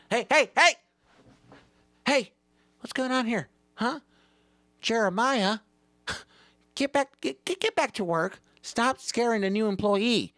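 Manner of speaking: high, loud reprimand; hammed-up indignant manager; boss scolding. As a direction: shout the worker back to the job. Boss scolds the old employee.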